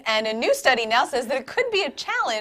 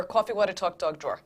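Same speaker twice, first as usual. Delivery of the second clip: Jersey vowels, drawn "aw" in coffee and dog; New Jersey accent; 5 semitones lower, 9 dB quieter than usual. Shown as a demonstration. Anchor showing college friends her teased words, New Jersey accent. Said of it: "Kara, do the words".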